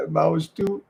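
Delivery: lightly voiced Cockney imitation after a laugh; amused little echo of a Cockney catchphrase; hint of comic Cockney mimicry; Del Boy.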